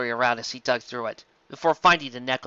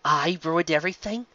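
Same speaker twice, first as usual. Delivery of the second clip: indignant demand; 3 semitones higher than usual. Acted. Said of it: "the older unicorn demanded".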